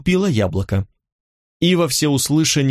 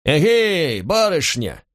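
surprised call; 5 semitones higher, slower than usual. A narrator's reading. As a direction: call out to her in mild surprise, pitched up. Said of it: "Меня удивлённо окликнули". (удивлённый оклик)

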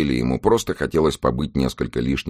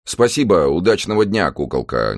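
nervous; 5 semitones higher, 4 dB louder than usual. Acted. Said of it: "нервно ответил Траффорд".

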